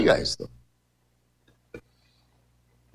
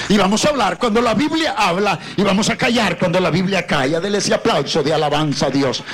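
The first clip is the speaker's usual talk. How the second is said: raised-pitch rallying sermon; prédica enardecida; 7 semitones higher than usual. Real, not acted. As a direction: rouse the congregation to affirm it. Preacher rallying the congregation. (predicación enardecida, tono elevado)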